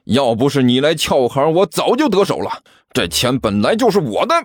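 indignant, unyielding retort; mildly heated argument; roaring back. Acted. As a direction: claim what is yours, refusing to back down. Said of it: "齐健毫不示弱地吼了回去".

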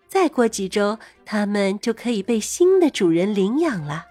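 put-on gentle storybook voice for kids; reading to a toddler. A narrator's reading. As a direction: read it sweetly to a little child. Reads a dog story to kids.

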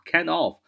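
"kind of" in full, "of" kept clear; unshortened form. Shown as a demonstration. Teacher shows what learners listen for in vain, full "kind of". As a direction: say "kind of" without shortening it. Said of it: "你是听不到kind of啊这样的一个".

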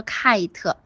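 "kite" with a long eye vowel and a separate t; wrong-word demo. Shown as a demonstration. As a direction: show the mistake "kite" slowly, eye vowel. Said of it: "不要说kite". (错误示范，慢读 kite，元音读成“爱”)

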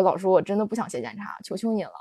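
quiet, fading plea; mild imitation of begging the teacher; soft pleading. Girl begging the teacher not to make her write a self-criticism, softly. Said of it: "我说".

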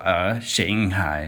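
slow, frowning, sarcastic Shanghai; mock sarcastic. Foreign friend mocks the teacher's Shanghai, slow sarcasm. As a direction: drag out Shanghai with a sneer. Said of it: "带种讽刺的感觉".

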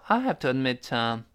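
mild hesitation, ending on "uh"; hesitant. Shown as a demonstration. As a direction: say it as a wavering admission. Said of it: "犹犹豫豫地说".

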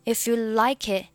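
"like it" linked, ending with no released t; silent t. Shown as a demonstration. Teacher modelling the clause, "it" without its t. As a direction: leave the t of "it" unreleased. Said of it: "it末尾不发音".

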